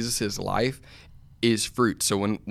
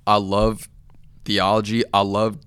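emphatic, louder, measured declarations; fired up; 5 dB louder than usual. Real, not acted. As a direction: get fired up and drive each phrase home. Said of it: "I just got fired up".

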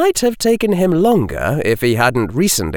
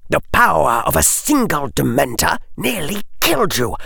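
put-on Lucius Malfoy questions the boy coldly; cold aristocrat; 7 semitones higher than usual. Lucius voice again.

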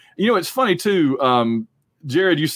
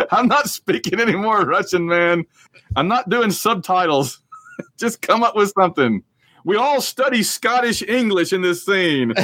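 Sean Connery; 4 semitones higher than usual. Retold or imitated. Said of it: "And Connery ... is like".

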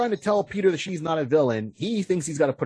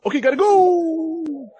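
hurried Spider-Man; 13 semitones higher, 6 dB louder, slower than usual. Retold or imitated. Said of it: "He goes".

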